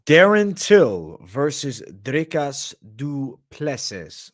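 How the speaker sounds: slow, loud drawn-out matchup call; ring announcer. Acted. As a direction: announce the bout like fight night.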